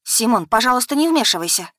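рявкнула; snapping bark. Acted. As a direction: snap to make him keep out. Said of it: "рявкнула я".

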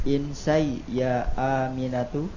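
"Insai ya Aminatu" rising at the end like a question; question intonation. Real, not acted. Student repeating after the teacher, mistaken question intonation. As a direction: lift the end of "Aminatu" as if asking. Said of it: "jangan intonasi pertanyaan".

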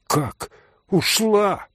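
slow, stunned exclamation; a mild shocked outburst; shocked cry. A narrator's reading. Mitya hears Grushenka left, a mild stunned cry. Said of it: "вскричал Митя".

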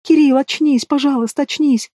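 high squeaky mimicry; mock a whiny wife, squeaky and high. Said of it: "передразнил писклявым голосом".

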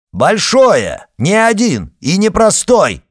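Arkady barking over his sister. A narrator's reading. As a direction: bark it out in fury. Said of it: "рявкнул Аркадий".

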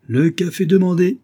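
high, loud servant's announcement; calling the order. A narrator's reading. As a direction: sing out the order like a waiter.

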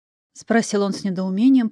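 plain reading voice

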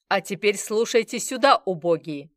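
loud, menacing order to the room; threatening tone. Acted. Bazarov silencing the bar crowd, loud threat. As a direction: bark it at them like a threat. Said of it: "угрожающим тоном сказал Базаров".

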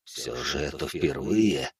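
slow, soft, echoing presence; a vast being faintly amused; ancient entity voice. A narrator's reading. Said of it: "раздался голос. Отовсюду".

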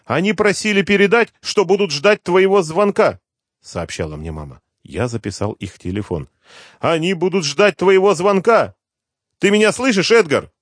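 high, loud, breathless rush of worry; a terrified mother pouring it all out; mother telling her son the girl was taken, in panic; panicked mother. Acted.

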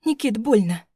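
ordinary delivery, nothing marked

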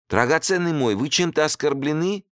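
high, panicky host; panicked. A narrator's reading. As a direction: plead in a sudden panic. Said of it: "спросил он в панике".

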